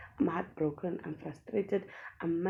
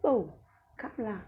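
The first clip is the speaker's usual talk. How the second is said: mock shout; 6 semitones higher, 3 dB louder than usual. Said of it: "Screaming and shouting".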